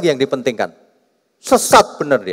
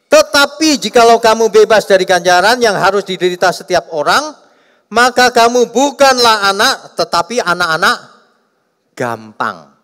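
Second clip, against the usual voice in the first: raised, loud reading of the verse; scripture reading; 6 semitones higher, 5 dB louder than usual. Acted. Preacher reading a Bible verse to the congregation, raised and declaiming.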